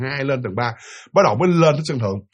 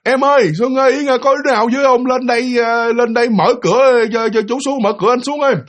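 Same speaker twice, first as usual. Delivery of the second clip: calling out; 4 semitones higher than usual. Retold or imitated. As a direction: shout down for someone to open the door. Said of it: "Thì nghe la ơi".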